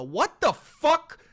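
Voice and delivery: slow, loud, stretched out; drawn-out disbelief. Real, not acted. Vlogger drawls disbelief at Trump's Russia trade talk. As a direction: drag it out, high and incredulous.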